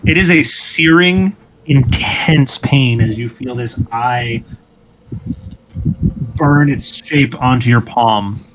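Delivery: measured, drawn-out scene setting; game master narration. Acted. Game master describing a searing brand to a player, measured narration. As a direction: narrate it slowly and deliberately.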